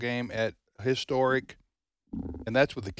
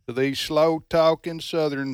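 slow Southern drawl; a light mocking Southern accent; slower than usual. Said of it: "use a fake Southern accent right there".

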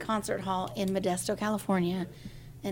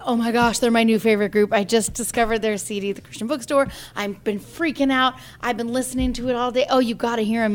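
louder, eager rush of fan chatter; excited gushing; 5 dB louder than usual. Retold or imitated. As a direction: gush like a thrilled new fan. Sister gushing about new group.

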